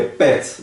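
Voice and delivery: PET with a quick, short vowel. Shown as a demonstration. Teacher pointing out the short sound, short PET. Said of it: "bem curto".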